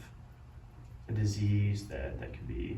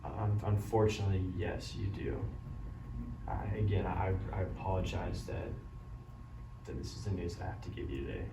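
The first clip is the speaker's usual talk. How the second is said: doctor bad news. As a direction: break the news gently and kindly. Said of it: "a beneficial way of delivering bad news".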